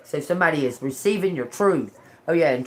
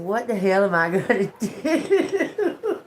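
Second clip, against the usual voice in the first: laughing despair; 3 semitones higher, slower than usual. Retold or imitated. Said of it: "I said".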